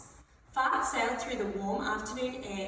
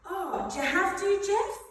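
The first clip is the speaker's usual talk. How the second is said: exasperated mum voice; 8 semitones higher, 4 dB louder than usual. Acted. Mother scolding dad in story.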